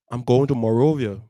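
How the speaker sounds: put-on a teen declaring he is leaving; bold announcement. Son telling mom he's leaving, blurted out. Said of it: "I just jump up and be like".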